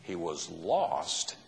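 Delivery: a hint of a gentle, pleading father; gracious father. Father gently answering his resentful older son, lightly tender. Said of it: "the father's gracious reply".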